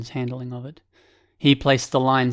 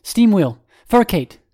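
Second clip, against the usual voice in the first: high, loud call-out; pitched-up shout, carrying to the far side; 7 semitones higher, 6 dB louder than usual. A narrator's reading. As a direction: shout the names across a distance. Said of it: "loud enough to be heard on the far side".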